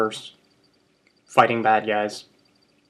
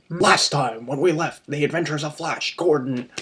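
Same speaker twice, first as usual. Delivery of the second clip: serial announcer; 3 semitones higher than usual. Retold or imitated. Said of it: "it'd be".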